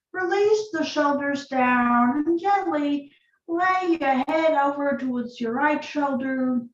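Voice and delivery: calm, unhurried yoga instruction with long pauses; guided yoga practice. Acted. Yoga teacher leading students through breath and neck stretches, calm guiding voice.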